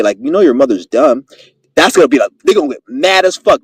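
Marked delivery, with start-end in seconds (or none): 0.2-1.2 slick jab said peacefully; peaceful insult. Acted. Showing how to needle an aggressor, peacefully. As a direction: keep the insult mild and easygoing. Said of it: "say it in a peaceful way".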